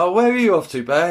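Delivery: high sing-out question, imitating; mock high-voiced little animals; cartoon animal friends. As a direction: pitch it up like curious cartoon critters.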